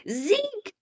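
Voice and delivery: high, loud, drawn-out mock reprimand; imitated parental scolding. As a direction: imitate a parent correcting a child, stretching each word.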